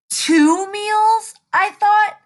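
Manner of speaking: light up at the idea; greedy excitement. Acted. Hungry wolf realizing two meals, high excited.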